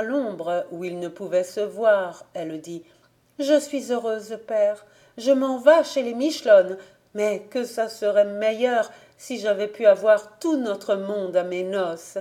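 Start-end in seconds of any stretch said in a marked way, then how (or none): 3.4-4.8 a hint of a happy young girl telling her father. Girl speaks aloud to father. 5.2-12.2 a hint of a young bride-to-be; young girl. Girl speaks to father.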